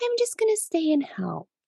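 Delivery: play-acted, very high, syrupy-sweet, sickly simpering voice. Imitating a man talking to his wife, in a mock sickly sweet voice. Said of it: "like in this sickly sweet voice".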